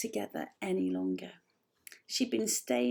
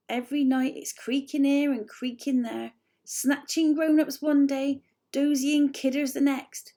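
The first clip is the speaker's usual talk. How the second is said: holding back laughter; 4 semitones higher, 7 dB louder than usual. A narrator's reading. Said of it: "His voice started to sound rather strange".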